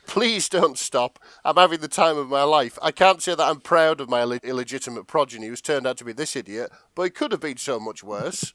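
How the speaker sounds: mock Andrew Ryan gasping through laughter; laughing hard. Andrew Ryan mocks his son through laughter. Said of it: "pissing himself laughing".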